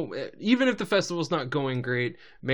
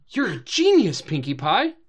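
excited gasp; 6 dB louder than usual. Retold or imitated. Gasping praise of Pinkie.

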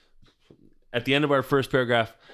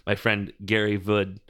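jumbled syllables; 3 semitones lower than usual. Pretend. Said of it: "it's a spoonerism of very good".

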